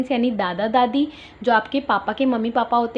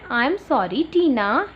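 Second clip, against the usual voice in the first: slow apology; much slower than usual. Retold or imitated. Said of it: "ये boy देखो अपनी दीदी को क्या बोल रहा है".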